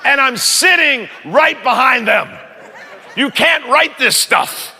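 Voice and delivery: slow, high, laughing shout; laughing disbelief. Real, not acted. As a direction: crack up at the irony. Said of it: "laughing in disbelief".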